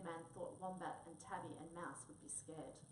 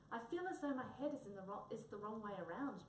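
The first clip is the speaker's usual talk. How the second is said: moaning; 3 semitones higher than usual. Acted. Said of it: "moaned poor Tabby".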